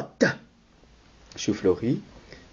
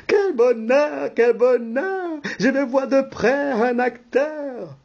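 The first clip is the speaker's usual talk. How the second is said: sing-song, higher delighted cry; jumping for joy; 5 semitones higher than usual. Acted. Wife thrilled to see a real actor, singing with joy. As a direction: bounce the words out with delight. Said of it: "sautant de joie et chantant".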